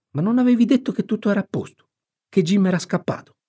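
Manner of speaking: put-on high-pitched, fast boyish protest; alarmed boy. Tom questions his friend about Jim, alarmed boy's voice. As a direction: challenge them in a high boy's voice.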